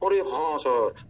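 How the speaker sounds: slow, lightly mimicked student "yes sir"; chorused student agreement. Teacher playing students grasping the point, slow mock agreement. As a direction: drag it out like a class catching on.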